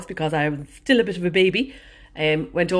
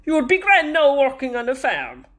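put-on old Kerry farmer; 9 semitones higher, 4 dB louder than usual. Old farmer complimenting air hostess in the aisle, Kerry accent. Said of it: "And he said to me".

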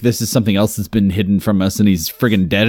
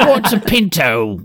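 put-on Viking accent; 5 semitones higher, slower than usual. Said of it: "these accents are so".

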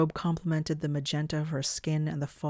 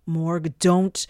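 alarmed shout; 2 semitones higher, 9 dB louder than usual. A narrator's reading. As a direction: shout to stop them at once. Shalott cries out in alarm.

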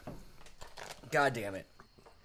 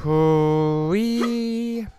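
hooting; 7 semitones higher, 8 dB louder than usual. Real, not acted. Hooting reaction to hot sauce.

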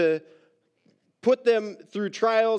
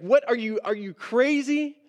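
higher-pitched, disbelieving question; mock incredulous; 5 semitones higher than usual. Preacher reacts to the command to rejoice, incredulous. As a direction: challenge it as if it were absurd.

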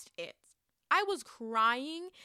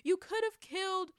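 much higher incredulous question; mock disbelief; 8 semitones higher than usual. Mocking a character who came back, high incredulous squeal. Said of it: "I'm like".

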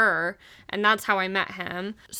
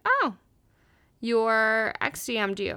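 fake casual. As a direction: act like it doesn't bother you at all. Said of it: "So I kept my cool".

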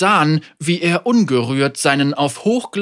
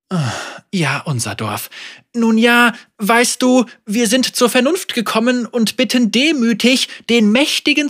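hohe, zögernde Bittstellerin; unterwürfige Anführerin; 8 semitones higher, 3 dB louder than usual. Acted. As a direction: vorsichtig schmeicheln. Margot speaks. (zögerlich unterwürfig)

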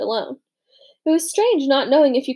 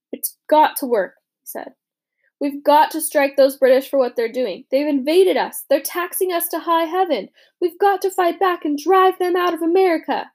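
menace; 5 semitones higher, 4 dB louder than usual. Acted. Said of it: "the menace in his tone".

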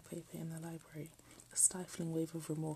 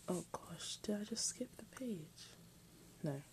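hushed worried aside; 3 semitones higher, 5 dB quieter than usual. Real, not acted. Worried aside mid reading.

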